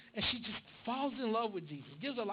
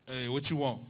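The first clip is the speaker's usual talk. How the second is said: gruff dad; 8 semitones lower, 6 dB louder than usual. Retold or imitated. Dad impatient on phone.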